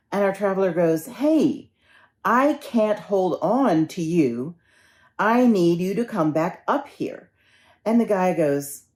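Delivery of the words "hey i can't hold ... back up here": higher-pitched, insistent appeal; urgent plea. Acted. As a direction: act out straining to hold on. Traveler pleads, losing his grip.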